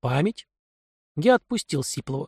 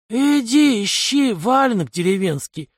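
higher, gruff criminal voice; a streetwise thug scoffing; 7 semitones higher, slower than usual. Acted. Kai's voice in dialogue.

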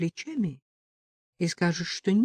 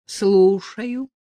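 groggy man answering the phone; just woken, mumbling hello; sleepy man picking up the phone, a little loud; 3 semitones higher, 6 dB louder than usual. A narrator's reading. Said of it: "раздался ... сонный голос".

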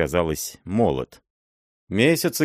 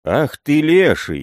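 loud curse, sudden and higher; angry outburst; 8 semitones higher, 6 dB louder than usual. Acted. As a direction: blurt out a furious curse. Prince outburst.

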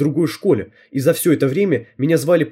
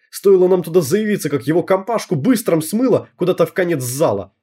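boastful tough schoolgirl; 4 semitones higher than usual. Acted. Voices Tonya boasting about a fight.

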